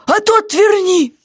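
guard's voice, high, slow and firm; firm demand. Acted. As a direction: demand it back, no arguing. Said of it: "он решительно потребовал".

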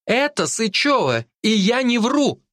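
put-on insisting girl. A narrator's reading. Girl insists to police, high stubborn. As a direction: insist she is not lying.

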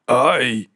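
short, loud "ow"; startled cry of pain; pained yelp. A narrator's reading. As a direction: yelp from a kick. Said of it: "вирискнув він, сміючись".

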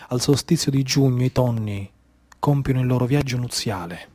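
low, soft murmured litany; hushed. Acted. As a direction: draw the audience in, almost secretive. Hushed litany about the tuna.

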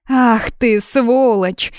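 high, loud flash of rage; flaring up. Acted. Blonde flaring up at the brother, furious. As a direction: explode at him. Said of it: "вспыхнула блондинка".

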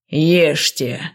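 low threatening growl; menacing growl. A narrator's reading. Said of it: "угрожающе прорычал он".

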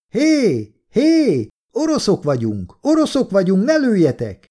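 high-pitched call across a distance; urgent shout. A narrator's reading. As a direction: call out desperately to stop the shooting. Calls to soldiers firing at them.

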